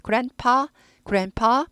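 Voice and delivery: "grandpa" ending in a popped pa; p sound. Shown as a demonstration. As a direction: close the lips for p in "grandpa". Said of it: "얘는 fa 아니고 p예요".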